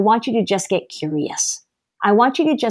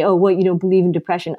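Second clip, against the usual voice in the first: indignant quote; faster than usual. Retold or imitated. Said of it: "people will push back against me and say".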